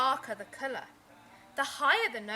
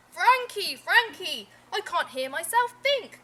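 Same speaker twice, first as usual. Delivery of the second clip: loud, higher, exasperated call; 5 semitones higher, 9 dB louder than usual. Acted. Father calling to Frankie over the noise, loud. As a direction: shout over the racket. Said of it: "called his father".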